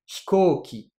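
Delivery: hikoki with the i of hi barely sounded; devoiced vowel. Shown as a demonstration. Teacher shows the dropped i in hikoki. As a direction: say hikoki, whispering away the first i. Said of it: "j'ai pas prononcé le i".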